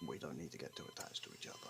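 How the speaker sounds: hurried mutter. Acted. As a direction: rush it out under the breath. Withdrawing from closeness, quick mutter.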